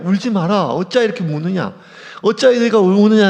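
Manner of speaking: a touch of Jesus, fuller and firmer, quick at first; lightly voiced Jesus asking why they weep; Jesus comforting. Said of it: "심지어 예수님조차 얘기해요".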